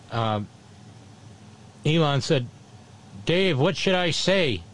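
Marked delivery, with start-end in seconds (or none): 3.2-4.6 put-on half-hearted stab at a South African accent; badly faked South African accent, a little higher. Imitating Elon asking Dave for help, bad South African accent. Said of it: "Bad accent, sorry".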